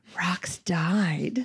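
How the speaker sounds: in a whisper. Retelling a sibling's answer to her question, whispering. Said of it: "JC responded in a whisper".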